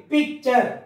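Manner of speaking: PICTURE with a stop after pic; stop inside word. Shown as a demonstration. Teacher showing pupils the break in picture, halting mid-word. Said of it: "You are stopping".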